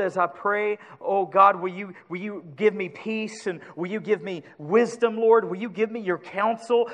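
sincere pleading prayer to the Holy Spirit; earnest prayer. Shown as a demonstration. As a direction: pray it from the heart, asking for help. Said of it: "I can say".

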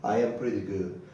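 measured classroom demonstration; slow model phrase. Shown as a demonstration. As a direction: say it slowly for learners to copy. Teacher repeats slow model.

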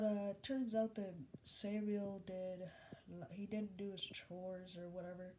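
talking around plastic fake teeth; fake buck teeth. Real, not acted. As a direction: speak with a mouthful of fake teeth. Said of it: "I'm sorry if I talk weird. I got my plastic teeth thing".

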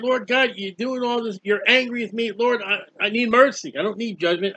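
voicing David begging God for mercy, a touch strained; pleading. Preacher voicing David pleading with God, mildly pleading. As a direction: plead for mercy as the worn-out psalmist. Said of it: "He's, he's pleading and saying".

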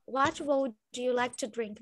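pronúncia britânica, palavras separadas; What would bem separado, britânico; British accent. Shown as a demonstration. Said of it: "falaram de um jeito britânico". (sotaque britânico)

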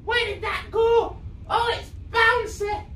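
high, excited shout of surprise; real surprise, voice jumping up; startled exclamation. Real, not acted. Object suddenly grows and flies off.

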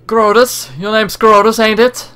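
high, lightly voiced Australian girl; lightly done Australian accent. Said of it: "I can't really hold a accent".

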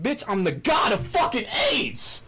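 mock yell.

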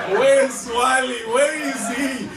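high, loud calling out; exaggerated, high-pitched searching cry; frantic searching. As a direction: shout as if hunting for someone lost. Mimicking people hunting for Wally.

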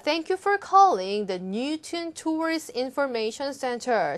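slow, careful read-aloud of an English line; slow model reading. Shown as a demonstration. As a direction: read it slowly for learners to copy. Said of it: "보시면 고유명사 이렇게 나와 있어요".

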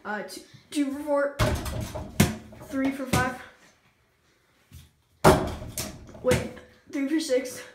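counting through the hiccups; jumpy hiccuping count. Real, not acted. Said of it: "I have the hiccups".

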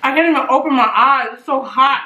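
rushed and pained from the heat; spicy food reaction. Real, not acted. Eyes watering from hot sauce.

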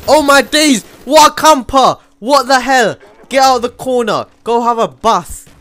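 loud, high-pitched gamer rant; outraged yelling. Real, not acted. Gamer berates a camper in the corner, outraged shouting. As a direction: yell it at the enemy in outrage.

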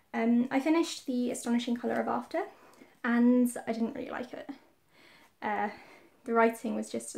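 breathless after a workout; out of breath. Real, not acted. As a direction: speak between quick breaths. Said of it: "I'm still a bit out of breath from the gym".

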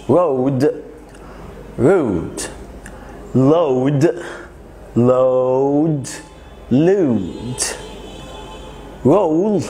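road, load, roll with round o, rude, lewd, rule with oo; o against u. Shown as a demonstration. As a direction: pairs said slowly and clearly. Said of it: "صوت ال O وال U".

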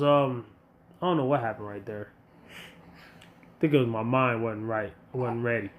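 ordinary talk, nothing marked

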